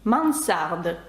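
"Мансард" with an unvoiced S after the nasal; "Мансард", hissed S in the middle; S kept as S. Shown as a demonstration. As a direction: say French "Мансард" with S, never Z. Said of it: "то це звук С".

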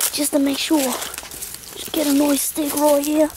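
mock Aussie bush guide, cautious; Australian survival host. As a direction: talk through the search in a put-on Australian accent. Australian survival host hunting a stick.

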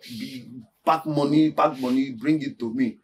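low, soft and halting; conspiratorial scheming. Acted. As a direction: lay out the shady plan quietly, piece by piece. Lays out a shady scheme to her.

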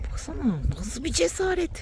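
whispered amazement in the dark; hushed whisper at the night shore; awed whisper. Real, not acted. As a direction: breathe it out in wonder.

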